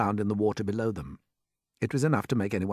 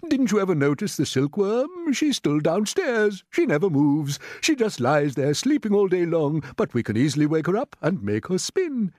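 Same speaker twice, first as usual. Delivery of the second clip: put-on high, loud old grasshopper; excited cry; 8 semitones higher, 5 dB louder than usual. A narrator's reading. Old grasshopper explaining the silkworm plan, excitedly. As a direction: press the idea on them, loudly and eagerly. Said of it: "cried the old green grasshopper".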